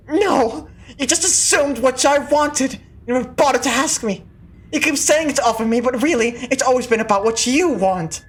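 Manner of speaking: mild angry outburst. Acted. Sister snapping at her brother, mild anger. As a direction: push back hard at him.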